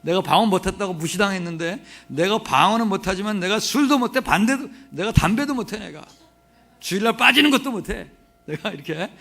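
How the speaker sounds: hammed-up fuming over an insult; retold indignation. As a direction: act out the slighted pastor's grievance. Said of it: "엄청 화가 났어요".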